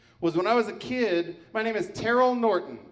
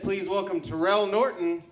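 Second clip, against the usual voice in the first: mock announcer. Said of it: "this is not what you expect".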